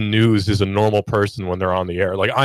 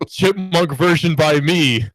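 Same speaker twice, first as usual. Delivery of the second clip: higher, slow, drawn-out amateur title; homemade video intro; 6 semitones higher, slower than usual. Retold or imitated. Host imitating old YouTube chipmunk song uploads, amateur intro. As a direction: announce your own chipmunk cover. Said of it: "chipmunk songs on YouTube".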